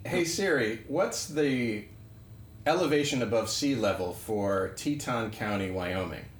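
quiet, careful query to Siri; talking to voice assistant. Real, not acted. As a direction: dictate it clearly to the phone. Asking Siri on a phone.

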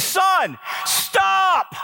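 high, strained plea to stop; a father losing patience, voice jumping high; exasperated call. Retold or imitated. Third time, rising exasperation.

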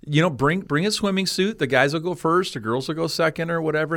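high, bright calling-out to the crowd; cheerful invitation. Retold or imitated. Pastor inviting the whole church to his pool, hearty call. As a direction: call everyone over with open enthusiasm.

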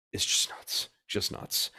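soft, unvoiced exasperation; a hushed aside of disbelief; whispered disbelief. Real, not acted.

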